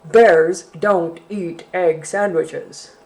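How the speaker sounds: slow, loud growly bear; loud, slow bear refrain. Acted. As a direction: drag out the bear's rule. Bear repeats refrain slowly.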